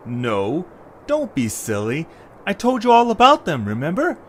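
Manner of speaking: lightly voiced young hero, brushing off the fear; a hint of a cheerful boy laughing off worries; Eche reassuring.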